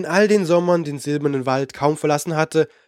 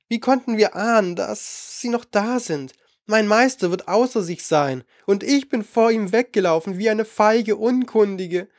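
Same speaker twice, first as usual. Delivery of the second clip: meek; 6 semitones higher than usual. Acted. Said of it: "meinte kleinlaut".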